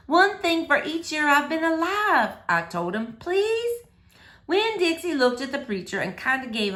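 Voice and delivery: gentle, lively read-aloud voice; story reading for children. A narrator's reading. Teacher reading a chapter book to boys and girls, lively read-aloud. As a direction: read it like story time for kids.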